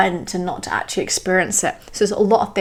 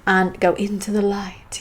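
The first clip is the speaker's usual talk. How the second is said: slow, drawn-out dramatic phrasing; mildly grand, slow build to the last word. Real, not acted. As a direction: stretch it out with a touch of theatre. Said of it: "I'm already getting very dramatic".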